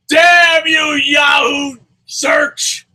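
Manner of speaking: hammed-up curse. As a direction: wail it like a ruined soap villain. Mock curse after lost promotion.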